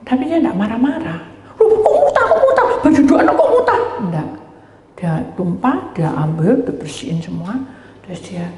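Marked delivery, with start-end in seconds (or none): 1.6-3.8 much higher, laughing, faster at the end; imitating the woman fussing over vomit on the children's clothes, high and laughing; mock alarmed woman. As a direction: squeal it like a fussing mother, half laughing. Mimics woman upset at vomit.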